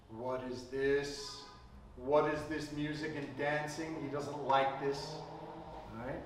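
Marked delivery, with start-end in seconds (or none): 0.1-4.0 a hint of the resentful son eyeing the party; disgruntled elder son. Elder son in the field, grumbling at the music. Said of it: "And he's like".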